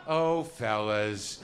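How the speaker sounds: slow, mock-shocked "oh, fellas"; a lightly voiced baffled radio woman. Shown as a demonstration. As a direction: drag it out like the shocked co-host. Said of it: "if I were to do an impression of that".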